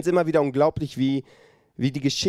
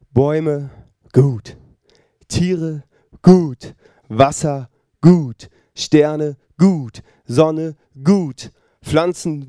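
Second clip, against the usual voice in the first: God approving creation; 5 dB louder, slower than usual. Acted. God reviewing creation, calling "gut.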